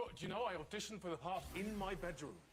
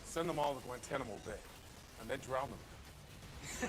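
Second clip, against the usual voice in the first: measured CIA bigwig voice; Homeland character voice; 2 semitones lower, slower than usual. Shown as a demonstration. Actor performing his CIA bigwig on request, character voice. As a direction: deliver it slowly as an intelligence chief. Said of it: "Can you do your homeland voice".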